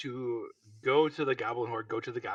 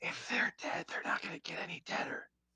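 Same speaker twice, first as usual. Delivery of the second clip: soft, hushed, in-character half-whisper; 7 dB quieter than usual. Repeating the aside to the group: half-whispering in character. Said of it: "he's still whispering".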